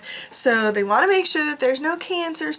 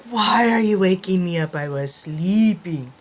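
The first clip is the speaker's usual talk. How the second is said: voicing the woken dog; 4 semitones lower than usual. Dog Molly asks owner why she woke her, grumbly. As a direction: play a lightly grumbling sleepy dog. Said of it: "Look, she's like".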